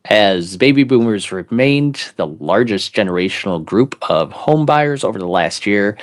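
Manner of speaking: measured read-aloud in an announcer's delivery. Pretend. Co-host reads a housing article paragraph aloud, announcer voice. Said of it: "I'll read it with my announcer voice".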